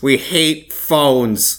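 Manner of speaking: very slow, stressed HATE; David Lynch impression. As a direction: echo it slow and nasal. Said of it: "I had a David Lynch impression".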